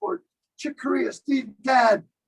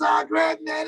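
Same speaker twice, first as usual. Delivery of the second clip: Northern California surfer drawl; 5 semitones higher, slower than usual. Retold or imitated. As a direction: greet him like a loose Sacramento guy. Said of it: "He talks kinda like this".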